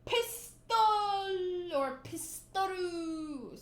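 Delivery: pistoru said the Japanese way, with a drawn-out ru; slow, stretched pistoru; pistoru pronunciation. Shown as a demonstration. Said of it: "So that's how Luffy says it".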